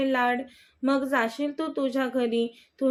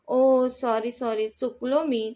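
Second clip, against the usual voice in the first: mock scared apology. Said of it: "तो घाबरल्यासारखं दाखवत चेष्टेने म्हणतो".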